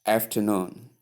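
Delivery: afternoon as af-tuh-NOON, three syllables; model pronunciation. Shown as a demonstration. Teacher summing up for learners, model pronunciation. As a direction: say "afternoon" with a softened middle syllable. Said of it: "that is how you pronounce".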